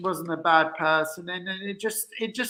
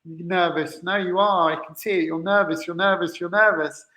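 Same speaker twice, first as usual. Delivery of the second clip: mildly voiced badgering, repeating the accusation; insistent pushing. Retelling a date who kept pushing him, insistent. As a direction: lightly imitate someone pressing the point. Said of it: "kept pushing and pushing and saying".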